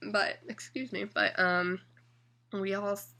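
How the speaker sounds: hiccuping through the words; talking between hiccups. Real, not acted. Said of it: "Sorry, I have the hiccups".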